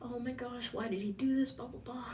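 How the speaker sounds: breathy high mock freak-out; flustered gushing. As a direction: imitate a woman thrown off by flowers. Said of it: "Are you like".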